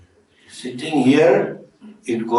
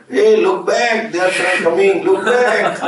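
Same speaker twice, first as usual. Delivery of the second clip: raised-pitch, urgent warning call; imitated audience shout; 5 semitones higher than usual. Stalls audience warning the film hero, mock shout. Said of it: "you know, will shout".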